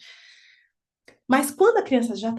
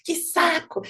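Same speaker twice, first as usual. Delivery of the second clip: pretend tantrum. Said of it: "ter feito uma birra e falado".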